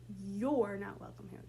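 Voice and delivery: "You're" leaned on, the rest dropping off; stress on You're. Shown as a demonstration. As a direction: put the weight on the opening "You're". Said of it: "pick a word in that sentence as well to emphasize".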